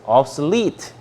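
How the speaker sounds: obsolete, pointing up the -lete; stress on final syllable. Shown as a demonstration. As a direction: demonstrate "obsolete" stressed at the end. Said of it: "여기에 강세가 있어요". (obsolete의 끝음절 lete에 강세)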